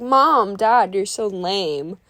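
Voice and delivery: imitating a teen fed up with parents; embarrassed teen complaint. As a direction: drag out the end like an embarrassed kid. Teen embarrassed by parents before friends.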